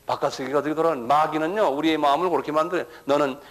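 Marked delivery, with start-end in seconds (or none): 3.1-3.4 a hint of a tempting devil; mildly voiced devil whispering bad advice; devil's voice. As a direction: devil telling believers to pray only for their own. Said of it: "그런다고".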